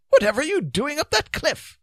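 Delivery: high, loud, puzzled question; high-voiced astonished inquiry; interested. A narrator's reading. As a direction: ask with amazed curiosity, pitched well up. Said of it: "he asked with interest".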